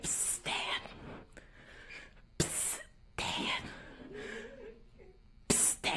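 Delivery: hushed psst to a sleeper; cautious whisper. Acted. Child nervously waking sleeping dad, cautious whisper. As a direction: whisper carefully, afraid to wake him.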